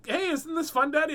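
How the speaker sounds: put-on high-pitched gleeful kid voice; Kyler. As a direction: call to daddy like an excited child. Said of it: "he's like".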